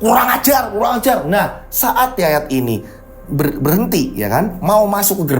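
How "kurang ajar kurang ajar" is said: raised-pitch angry cursing; still yelling. Acted. Driver still cursing as he reaches the gate, angry yelling. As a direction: keep cursing, a touch less forcefully. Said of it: "Yayat masih teriak-teriak".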